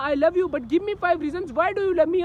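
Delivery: slow, drawn-out imitation of a demanding girlfriend; mock needy girlfriend. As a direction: mimic her pestering for reassurance. Mimics demanding girlfriend in rant.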